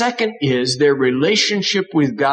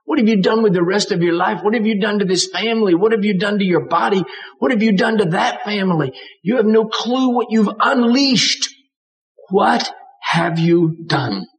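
higher, rushing anguished questions; mother's anguish; 4 semitones higher than usual. Retold or imitated. Mother to her son who killed a boy, rushing grief. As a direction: pour out the mother's grief in a rush. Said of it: "She means".

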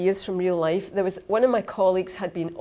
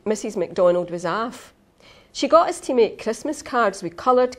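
story reading; 2 semitones higher than usual. Acted. Reads opening of her story.

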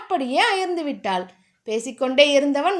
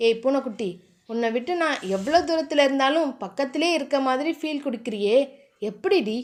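tender; 3 semitones lower than usual. Acted. Tender words to sleeping lover.

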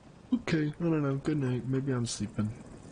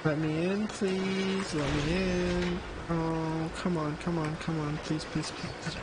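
higher, frantic begging fading; desperate pleading; 4 semitones higher than usual. Real, not acted. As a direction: beg desperately. Begging game door to open.

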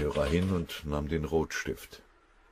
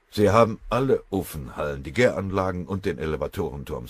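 raised, urgent report of losses; 2 semitones higher, 6 dB louder than usual. Acted. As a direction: push the bad news out loud. Kriegsrat meldet aufgeregt Verlust.

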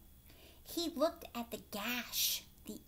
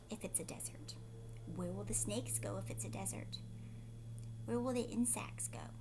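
hushed question; 2 semitones lower, 5 dB quieter than usual. Real, not acted. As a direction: whisper the questions to draw them in. Teacher asks children softly.

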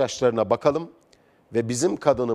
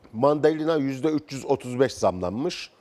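just after a sip; while sipping a drink. Real, not acted. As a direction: read it right after a swallow. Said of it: "Müsaadenizle bir yudum alayım".

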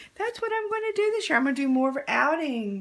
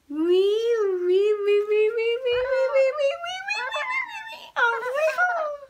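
rising squeals climbing very high and loud; playful piggy squeal for the baby, climbing high; 10 semitones higher, 4 dB louder than usual. Acted. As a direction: squeal the wee-wees higher and higher like a piggy. Piggy rhyme toe game with baby.

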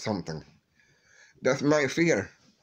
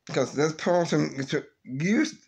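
voice breaking; 4 semitones higher than usual. Real, not acted. Grief over lost caretaker.

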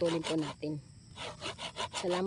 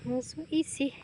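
playful high boast; 10 semitones higher, 4 dB louder, slower than usual. Real, not acted. Job done, playful boast.

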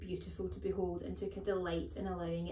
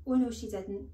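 lightly voiced, louder schoolboy; piping schoolboy; 3 semitones higher, 6 dB louder than usual. A narrator's reading. Pupil defending his teacher, piping up. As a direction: pipe up in protest. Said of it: "Nigel piped".

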